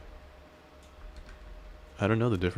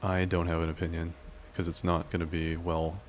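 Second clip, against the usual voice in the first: put-on southern cowboy accent. Streamer reading a viewer's careful opinion, lightly Southern cowboy accent. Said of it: "reading everything you say in a southern cowboy-esque accent".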